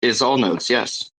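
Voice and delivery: lightly voiced Jacob impression; hint of Jacob's voice. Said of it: "How do you do Jacob's voice so good?".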